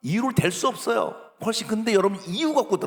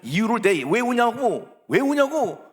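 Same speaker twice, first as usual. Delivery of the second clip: raised, insistent mock telling-off; scolding; 4 semitones higher, 3 dB louder than usual. Adult scolding a child who keeps crying, exasperated. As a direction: repeat the demand, higher and more exasperated. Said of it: "더 혼내고".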